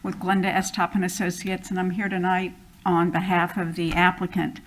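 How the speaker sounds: muffled by a face mask; speaking through a mask. Real, not acted. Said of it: "hear me through my mask".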